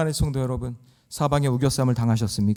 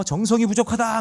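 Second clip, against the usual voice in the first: mock shaman; 7 semitones higher than usual. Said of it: "막 그러면서".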